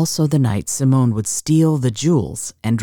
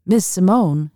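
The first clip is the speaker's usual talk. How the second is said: higher-pitched call to catch her attention; 7 semitones higher, 3 dB louder than usual. Acted. Accountant catching up to the woman at the hall's end, calling out. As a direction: call after someone down the hall. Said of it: "he called out again".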